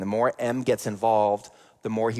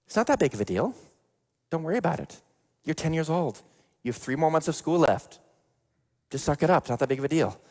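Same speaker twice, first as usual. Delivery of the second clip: dismissive mom; 5 semitones higher than usual. Retold or imitated. Mom brushing off bullied son.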